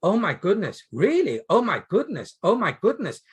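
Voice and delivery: stunned listener going oh my goodness; shocked oh my goodness. Shown as a demonstration. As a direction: react with real shock to the story. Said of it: "I hope you lot were saying the same thing".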